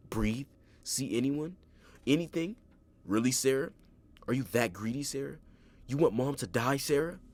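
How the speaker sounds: sickly sweet menace that keeps building; creepy fake soothing. A narrator's reading. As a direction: killer goading Sarah to give up her mom. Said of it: "A disgusting attempt to be soothing".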